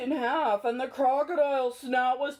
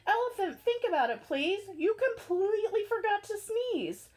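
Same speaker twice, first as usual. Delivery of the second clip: little mouse; 2 semitones higher than usual. Acted. Mouse voice, lower.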